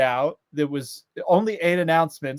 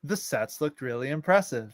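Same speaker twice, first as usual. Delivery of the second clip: quick Welsh lilt; Welsh accent; 2 semitones lower, 6 dB quieter than usual. Pretend. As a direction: say it like a Welsh local. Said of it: "That's great. Kudos to you".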